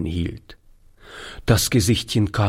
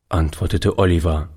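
ordinary delivery

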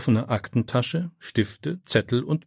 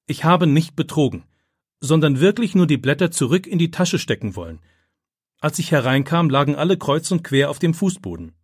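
steady, raised, confident answer; boy answering the principal firmly; 4 semitones higher, 4 dB louder than usual. Acted. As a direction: state the truth without wavering. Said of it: "antwortet er mit fester Stimme".

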